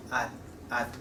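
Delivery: ad quietly, the tongue held on the gum ridge; soft unreleased t. Shown as a demonstration. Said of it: "your gum ridge".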